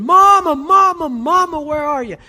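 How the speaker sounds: put-on high, loud cry of a lost little boy; screaming for mama. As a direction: yell out for your missing mother, imitating a child. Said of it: "starts screaming".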